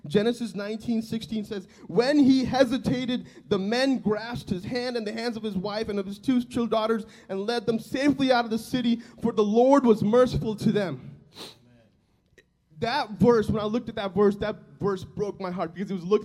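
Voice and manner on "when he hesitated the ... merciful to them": emphatic scripture reading. Acted. Preacher reading Genesis to his church, louder and emphatic. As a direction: proclaim the passage to the congregation.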